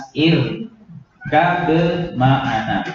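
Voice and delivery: "Ir ma'ana" in slow, separated syllables; read clearly. Shown as a demonstration. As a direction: pause between the sounds of "Ir ma'ana". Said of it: "aslinya dibaca jelas". ("Ir ma'ana" terpisah-pisah dan jelas)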